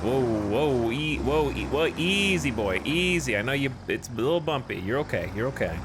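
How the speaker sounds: gentle, calming coo; soothing a child. Pretend. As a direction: soothe it like a spooked horse. Calming the tractor like a horse.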